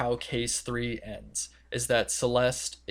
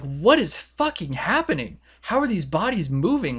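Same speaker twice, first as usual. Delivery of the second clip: higher-pitched mock disbelief; acted bewilderment; 5 semitones higher, 4 dB louder than usual. Students finding the bodies have moved, acted bewilderment. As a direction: play baffled, pitch swinging upward.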